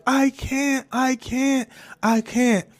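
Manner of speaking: high, mildly whimpered imitation of crying; retold tearful pleading. Crying to mom in the car, mildly acted distress. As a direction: repeat it high, as if overcome. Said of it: "I just couldn't stop crying".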